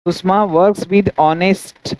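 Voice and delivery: each word set apart for the class; slow dictation. Shown as a demonstration. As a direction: slowly read faulty example. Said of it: "wrong example read out".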